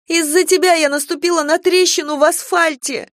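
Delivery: high, loud howling wail. Acted. Girl howls at father for making her step on a crack, loud wail. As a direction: howl the blame at him. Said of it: "взвыла я".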